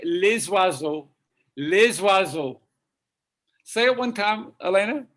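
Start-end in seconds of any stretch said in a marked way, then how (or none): 0.0-2.6 "les oiseaux" joined with a z sound; French plural liaison. Shown as a demonstration. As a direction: link "les" into "oiseaux" as "lay-zwa-zo". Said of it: "if you say plural of that, you say".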